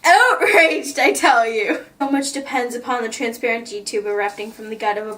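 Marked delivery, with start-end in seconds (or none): 0.0-1.8 mock outrage. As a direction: play it as theatrical fury. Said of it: "I'm outraged".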